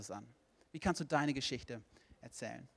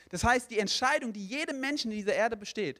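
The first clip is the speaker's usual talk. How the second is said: raised, higher pulpit voice; impassioned preaching; 6 semitones higher, 4 dB louder than usual. Real, not acted. Preacher tells the congregation God wants all saved, impassioned preaching. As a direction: press the message home with force.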